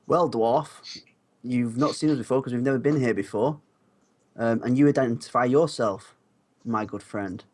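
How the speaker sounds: slightly sarcastic. Acted. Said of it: "I say in a slightly sarcastic tone".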